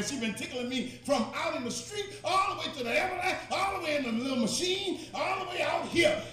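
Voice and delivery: retold protest climbing in pitch; insistent protest. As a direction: act out a patient insisting, building phrase by phrase. Man insists to disbelieving family.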